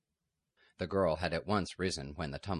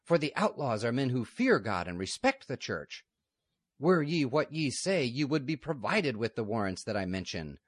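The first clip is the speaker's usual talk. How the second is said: higher, louder solemn warning; stern abbess warning; 6 semitones higher, 4 dB louder than usual. Acted. Lady Superior warning of excommunication, stern and raised. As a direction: threaten them with the church's ban.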